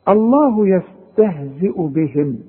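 الله يستهزئ بهم recited slowly with thin hamza; careful tajweed reading; slow recitation. Shown as a demonstration. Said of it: "رقق الهمزة".

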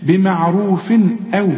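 بمعروف أو with a clean final n and no hum; clear tanween. Shown as a demonstration. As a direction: say the n of بمعروف distinctly, then أو. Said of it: "هنا ما فيش غنة".

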